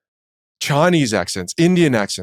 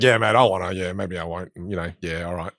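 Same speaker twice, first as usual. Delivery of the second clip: Aussie slang; 6 semitones lower, 4 dB quieter than usual. Shown as a demonstration. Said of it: "It's like".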